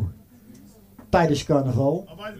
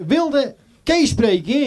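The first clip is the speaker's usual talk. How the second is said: "Wilde de peer spreken?" said slowly and higher, prim and polite; phone lady; 7 semitones higher, slower than usual. Retold or imitated. Doorman imitating the phone receptionist, slow, lightly higher. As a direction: mimic the switchboard woman, slow and a bit higher. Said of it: "zegt ze".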